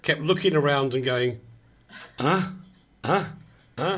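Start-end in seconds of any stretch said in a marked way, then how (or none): 2.2-4.0 imitating repeated surprised huhs; a puzzled "huh?" at each new sight; mock surprise. Host imitates the newcomer looking round the office, mock surprised. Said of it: "like, surprise, surprise, surprise".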